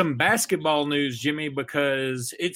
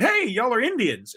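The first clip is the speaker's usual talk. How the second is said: quoting Columbus; 8 semitones higher than usual. Retold or imitated. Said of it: "landed on the shore and said".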